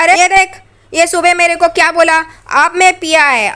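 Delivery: mock a drunk showing off to the cop; drunk man. Drunk Sachin heckling the cop.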